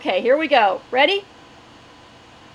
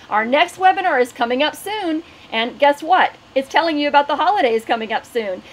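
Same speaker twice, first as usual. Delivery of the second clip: webinar host announcement. Acted. Host welcoming sellers to the webinar and reading sponsors, bright announcer read. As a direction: read the housekeeping like a cheerful announcer.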